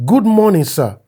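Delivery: overly polite message read aloud; a hint of a fawning younger friend; reading a deferential message. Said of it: "November twenty-eight".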